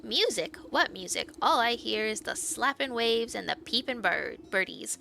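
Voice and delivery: cheeky sprite playing innocent with the granny; sly sprite. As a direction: play dumb like a cheeky imp. Sprite character voice.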